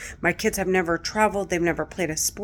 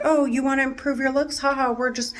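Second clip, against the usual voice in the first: 1 mock taunting voices; 5 semitones higher than usual. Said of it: "It's like".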